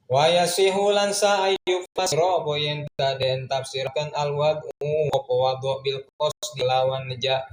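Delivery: chanted Arabic text with word-by-word Javanese gloss; kitab recitation. Acted. Teacher reading the Arabic kitab aloud to students, chanted recitation. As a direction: intone the classical text like a pesantren teacher.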